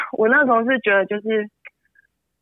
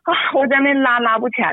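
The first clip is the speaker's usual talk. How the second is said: holding back tears, a little higher; tearful; 3 semitones higher than usual. Real, not acted. Mother recalling her son's meltdown, tearful. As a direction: voice breaking as she remembers pulling him. Mother retelling a painful struggle.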